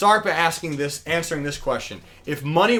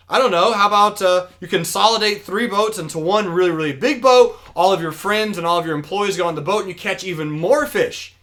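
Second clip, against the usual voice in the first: higher, louder brainstorm, easing toward the end; acted eager pitch; 4 semitones higher, 4 dB louder than usual. Businessman urging fisherman to grow, acted eager pitch. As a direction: pitch a bigger idea with mock enthusiasm.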